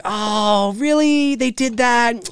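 high, startled disbelief; half-laughing shocked reaction; surprised. Retold or imitated. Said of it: "And I was like".

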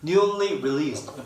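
Newly released drawn out very slowly; slow pronunciation demo. Shown as a demonstration. Teacher slows Newly released for students, very slow. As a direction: stretch out Newly released word by word. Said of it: "발음 좀 안 들리죠?".

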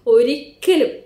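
a sudden loud, emphatic "ഒരിക്കലും" as the husband; stern warning. Retold or imitated. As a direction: bark out "ഒരിക്കലും" like a firm husband. (ഭർത്താവിന്റെ കർശനമായ ഉറച്ച മുന്നറിയിപ്പ്)

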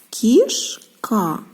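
кішка said with a falling tune; word said for analysis. Shown as a demonstration. Teacher repeating кішка for the kids, falling. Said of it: "звуковий аналіз слова кішка".

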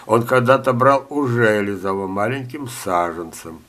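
ordinary talk, nothing marked

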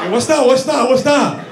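mock leper cry. Trainer acting out the leper.

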